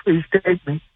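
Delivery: soft, laughing "Please take me". Retold or imitated. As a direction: repeat the plea softly through a laugh. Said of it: "I, I says".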